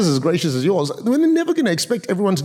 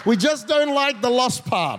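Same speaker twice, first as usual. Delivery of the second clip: preached punchline; 5 semitones higher, slower than usual. Acted.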